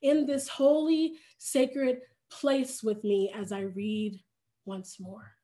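gentle devotional reading of a Gospel story; scripture reading. Acted. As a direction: read the passage like a prayerful storyteller. Reads scripture aloud to congregation.

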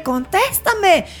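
very slow, drawn-out order; mock demanding mom. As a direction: drag the word out like an angry mom. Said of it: "era de". ("contéstame" lento y exigente)

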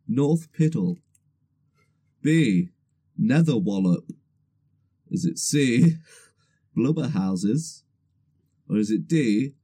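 slow, deliberate quiz question read; quiz host. Acted. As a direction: read it out like a game show host.

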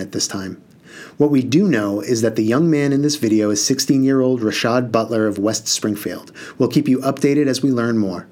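measured newscaster delivery; news anchor read. Acted. TV anchor reporting the store footage to viewers, news read.

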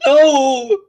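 high, loud playful yell; loud gasp and shout. Pretend. Refusing to shut up, playful.

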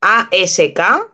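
slow, letter by letter; spelling again. Shown as a demonstration. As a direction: spell the word out slowly. (deletrea otra vez, letra por letra)

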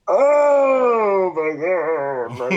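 high, loud drawn-out "oh", sliding down; exasperated outburst. Retold or imitated. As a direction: wail it in acted exasperation. Retold exasperated reaction.

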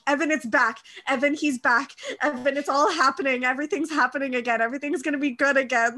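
excited gushing. Retold or imitated. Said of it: "I was like".

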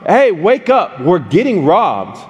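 urgent mock shout to wake friends; retold shout. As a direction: re-enact shouting roommates awake, not full volume. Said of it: "I shout".

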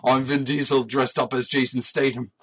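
Jason Statham impression. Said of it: "that's a really close Jason Statham".

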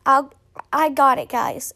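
half-hearted imitation of a teacher's yell; retold shout. Teacher jumping onto a desk to rescue her class, mock shouting. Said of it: "shouts ... at the top of her lungs".

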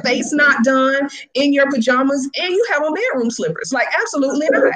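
stern instructor's scolding. Retold or imitated. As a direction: imitate an instructor reading a student out, pitch climbing. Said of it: "she read her to the skies".

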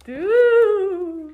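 lightly voiced laid-back surfer; surfer guy. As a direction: say dude like a surfer. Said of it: "surfer guy".

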